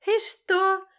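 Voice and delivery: high, loud defiant yell; furious shouted retort; shouted back. Acted. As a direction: scream it back at him. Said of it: "кричит она в ответ".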